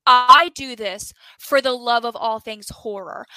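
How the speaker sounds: mock indignant protest; imitating a man getting defensive on camera; retold angry denial. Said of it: "Russ gets very angry on camera".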